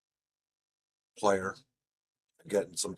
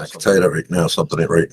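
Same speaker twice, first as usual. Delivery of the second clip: echoing; 4 semitones lower, 9 dB louder, faster than usual. Real, not acted. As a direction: voice echoed back, delayed. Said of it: "I'm fucking echoing".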